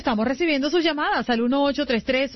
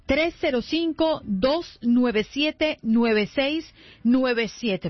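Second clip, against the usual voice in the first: number read out in spaced groups, "nueve seis" held apart from "nueve siete"; slower dictation; much slower than usual. Real, not acted. Host giving listeners the WhatsApp number to note down, slower dictation. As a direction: dictate it with a pause before the last "nueve siete". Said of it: "Así que vaya anotando".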